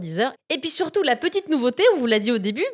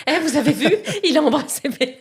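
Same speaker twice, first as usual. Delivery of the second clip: higher, hammed-up excitement breaking into laughter; mock excited call-out; 5 semitones higher, 3 dB louder, faster than usual. Teasing re-enactment of telling metro passengers, mock excited. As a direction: play the overexcited fan, laughing at the end. Acted calling out to metro strangers.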